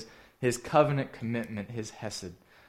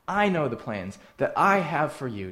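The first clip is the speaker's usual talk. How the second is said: both "I"s pressed a little louder; stress on I; 3 semitones higher, 5 dB louder than usual. Shown as a demonstration. Preacher reading God's promise to the congregation, stressing "I". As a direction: let God's "I" carry the weight. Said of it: "is emphatic".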